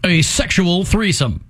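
slow, deliberate news anchor read; newscaster voice. Retold or imitated. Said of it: "They never lose the newscaster voice".

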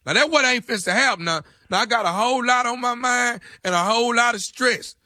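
a lightly voiced tough inmate calling from jail; prank jail inmate. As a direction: play a rough ex-con on the phone, only lightly put on. Prank caller plays jailed ex.

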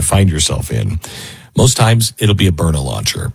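measured, earnest radio sponsor read. Real, not acted. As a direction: sell it as a sober personal endorsement. Host reads sponsor advertisement.

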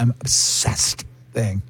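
slow, low Gen Z "I'm obsessed"; drawn-out obsessed. Retold or imitated. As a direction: stretch out "obsessed" like a teen. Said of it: "I know someone that does that".

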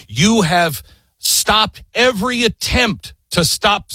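high, slow accusation; a hint of outrage, drawn out; accusing the king. Jefferson charging King George, slow and high.

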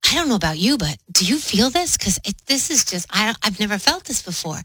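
dangling the carrot. Acted. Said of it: "kinda, like, dangling the carrot".

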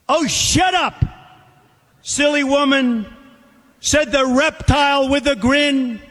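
measured, theatrical reading of a verse fable; poem recitation. Acted. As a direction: recite it like a cautionary tale to a crowd.

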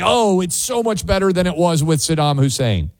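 imagined fan's overdone praise; mock enthusiasm. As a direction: pretend to be impressed, starting on a high "Oh". Imagined people praising Iraq's outcome.

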